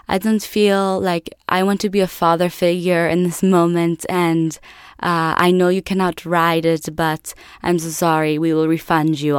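put-on light Italian accent; apologetic, with a hint of Italian accent; imitated Italian father. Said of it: "this big Italian guy".

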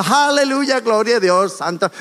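aleluya agudo que se va apagando; alabanza exclamada fingida. Acted. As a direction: imitar una alabanza efusiva, sin gritar de verdad. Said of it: "no llegamos gritando, ni cantando, ni diciendo". (imitación de exclamaciones de júbilo religioso)

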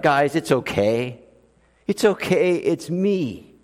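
calm the frightened friends; Jesus soothing his scared disciples, low; gentle reassurance. Retold or imitated.

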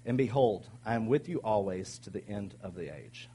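measured, emphatic Bible reading; scripture reading. Acted. Pastor reading Jesus's last words to the disciples, emphatic scripture reading. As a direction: read it out in deliberate phrases.

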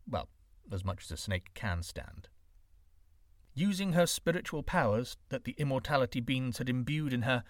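ordinary delivery, nothing marked

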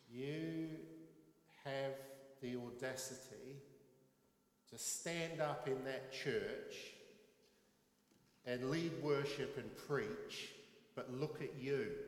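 a mocking inner critic condemning the preacher; accusing inner voice. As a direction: sneer at yourself, hammering each count. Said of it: "this little voice in my head goes".

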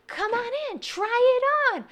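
high, bright shop clerk voice; peppy salesperson. Retold or imitated. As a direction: greet her like an eager salesman. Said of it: "the salespeople was like".

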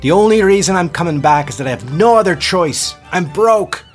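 loud, high exasperated shout; angry yell. Acted. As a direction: shout it, bitter and cornered. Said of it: "she yelled".

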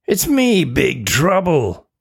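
a hint of a mischievous creature, slow on the name; lightly voiced imp. Imp announcing himself to Tina, lightly mischievous. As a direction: relish the name slowly.

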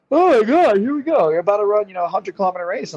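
half-joking high-pitched oh my God before a long race. Retold or imitated. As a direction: squeal it like dread just hit you. Retelling his own dread before the start.

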